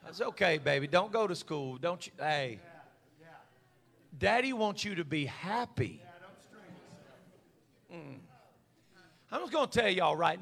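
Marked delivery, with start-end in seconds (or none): 0.0-6.0 mock doting dad. Mock soft doting father.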